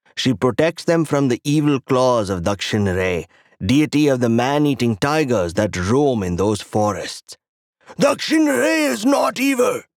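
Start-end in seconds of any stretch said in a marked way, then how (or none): 7.9-9.8 very high, sudden angry outburst. Reading a story aloud, the creature defends Dakshin Ray: flaring up angrily. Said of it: "my guest flares up like the beast".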